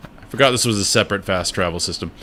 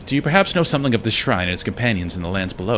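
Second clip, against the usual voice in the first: lightly voiced, formal heroine; understated courteous character reading; passive-aggressive Hornet; 2 semitones higher than usual. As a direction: ask with measured, barbed politeness. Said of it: "She's very passive-aggressive".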